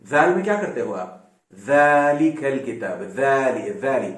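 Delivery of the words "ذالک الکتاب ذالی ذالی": ذالک slowly, the ذ with the tongue out; ذالک said slowly with a voiced th; Arabic ذ demo. Shown as a demonstration. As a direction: model the Arabic ذال. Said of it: "ذا بولتے ہو".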